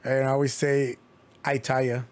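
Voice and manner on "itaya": Itaya, imitating a missing final D; forgotten D. Host quoting his usual echo of a lisping ex, dropped-D imitation. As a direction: drop the D and say Itaya. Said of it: "she used to always forget the D".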